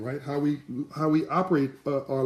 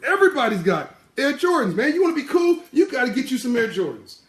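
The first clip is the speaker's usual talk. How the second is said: high, loud taunting; mocking kids; 4 semitones higher, 4 dB louder than usual. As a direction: needle Derek about his stock, pitched high. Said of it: "the kids jump on Air, Derek".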